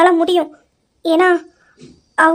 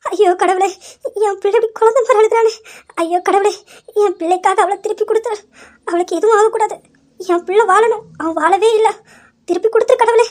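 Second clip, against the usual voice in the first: higher, pleading cry to God; anguished prayer; 3 semitones higher than usual. Acted. Mother praying for her son's wife, anguished and pleading. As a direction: beg God to give her back.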